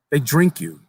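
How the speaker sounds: lightly voiced young boy. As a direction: tell it like an eager child sharing a secret.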